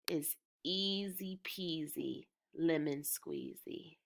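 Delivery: slow whispered rhyme; teacher whispering a playful rhyme to the class. Real, not acted. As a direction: let it out as a secret whisper.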